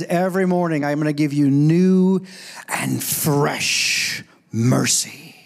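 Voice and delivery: stretched, emphatic promise from God; drawn-out promise. Acted. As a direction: savour the final words, very slowly. Preacher voices God's promise, drawn out.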